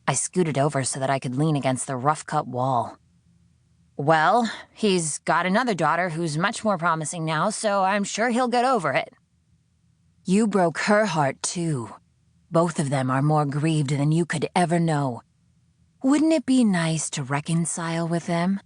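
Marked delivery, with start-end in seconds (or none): 4.0-9.1 higher, dry sarcastic shrug. Acted. Sydney answering her captor, higher dry sarcasm. 10.2-18.6 coaxing captor. Acted. Voice tempts.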